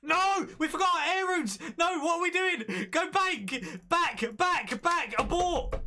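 put-on high, shouted anime boy panic. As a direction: yell it like a frantic anime hero. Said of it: "We have to do this kill with an anime voice".

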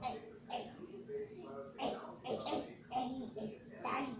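soft whispered hey; whispering. Real, not acted. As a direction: hush him quietly. Whispered warning.

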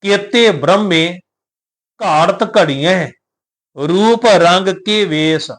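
slow verse with careful pauses between phrases; recite with pauses. Shown as a demonstration. Teacher modelling the pauses for the sangat, slow and careful. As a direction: pause cleanly after ਬ੍ਰਹਮੇ and ਘੜੀਆਂ. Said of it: "ਵਿਸ਼ਰਾਮ ਤੇ ਉਚਾਰਨ ਵਾਲੇ ਪਾਸੇ ਧਿਆਨ ਦੇਣਾ ਹੈ".

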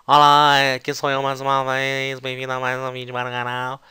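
lightly imitated slurred intro, words run together; mumbled run-on. Teacher imitating how she would mumble a video intro. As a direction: blur the intro into one mumbled chunk. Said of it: "ela estaria dizendo assim".

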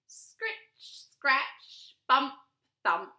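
spaced scratchy scritches and short thumps; plodding sound effects. A narrator's reading. Tortoise climbs the slope, scratchy plodding noises. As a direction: sound out each scrape and bump separately.

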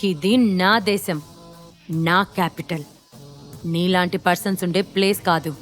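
understated anger, close to narrating pitch; angry. Acted. Shiva telling Gentil this is his country, mildly angry. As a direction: put him down with restrained anger. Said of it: "కోపంగా అని".

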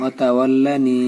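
অতাওয়াল্লানি with the final "ni" held long; one-alif stretch. Shown as a demonstration. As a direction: lengthen the last vowel of অতাওয়াল্লানি. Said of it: "এখানে এক আলিফ টান". (অতাওয়াল্লানি, শেষে এক আলিফ টান)

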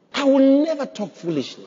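high, firm vow; emphatic declaration. Shown as a demonstration. Preacher modelling a confession for the congregation, emphatic.

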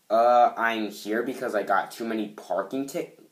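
mildly obnoxious line read. Acted. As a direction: play it a touch obnoxious. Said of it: "this sounds so obnoxious".

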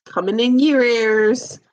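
restrained sing-out; toned-down catchphrase. Acted. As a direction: toss the catchphrase out with a gentle lift.

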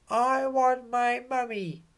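very high, small voice wailing for mummy; whiny baby owl. Acted. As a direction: play a tiny owlet who misses his mum. Baby owl Bill cries for mum.

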